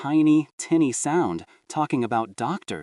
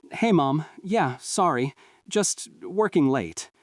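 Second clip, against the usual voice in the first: thin voice; 5 semitones higher than usual. Acted. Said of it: "My own voice sounded thin, alien".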